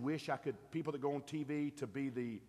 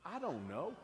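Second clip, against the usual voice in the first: higher, sincere I don't know said with conviction; like you mean it; 4 semitones higher than usual. Shown as a demonstration. Pastor coaching the congregation to admit it, said with conviction. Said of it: "say it like you mean it".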